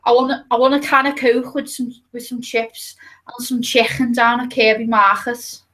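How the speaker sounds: Scouse accent with throaty k sounds; showing off thick Scouse. Shown as a demonstration. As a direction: lay on the Liverpool accent. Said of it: "what's the most Scouse thing you can say".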